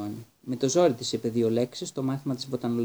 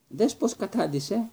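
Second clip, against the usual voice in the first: furious; 8 semitones higher, slower than usual. A narrator's reading. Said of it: "είπε εξοργισμένος".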